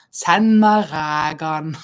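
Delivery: slow, drawn-out comic catchphrase with a laugh; imitating Thomas. Host recalling a line from Thomas and Harald, slow amused imitation. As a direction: stretch the dialect line out, amused. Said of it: "Thomas saying, "Send meg rægan".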